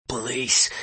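barely there, wheezy voice; wheezing. Acted. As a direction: wheeze the word out, hardly voiced. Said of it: "His voice was hardly there. It was all wheeze and whistle".

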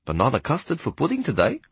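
a touch of a tempting offer; enticing. Acted. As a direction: lure her back with pudding. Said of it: "Henny said enticingly".

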